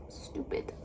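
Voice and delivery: whispered stupid under the breath; frustrated whisper; muttered stupid. Real, not acted. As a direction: hiss stupid quietly to yourself. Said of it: "I'm so upset".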